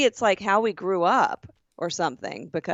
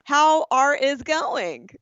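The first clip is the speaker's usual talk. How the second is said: voicing the scammer; 5 semitones higher, slower than usual. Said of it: "she's like".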